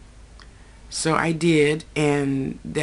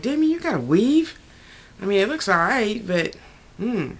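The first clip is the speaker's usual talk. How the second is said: teasing Damien; 4 semitones higher than usual. Retold or imitated. Teasing Damien about his weave.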